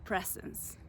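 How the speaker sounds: breathy whisper, voice dropping away. Real, not acted. Searching for the word, she whispers it.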